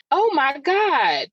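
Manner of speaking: imitated teenagers. Getting on kids for their exclamations, imitating teenagers. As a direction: lightly mimic an exclaiming teenager, slow and high. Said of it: "the teenagers, I always be saying".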